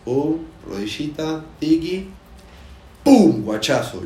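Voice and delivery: high, slow sound-effect commentary; excited play-by-play. Acted. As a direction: call the play like a highlight. Acting out football play.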